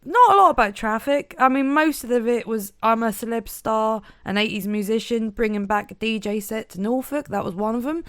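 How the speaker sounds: put-on lightly broad Norfolk accent; easing into a Norfolk accent. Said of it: "You're just warming up your Norfolk accent".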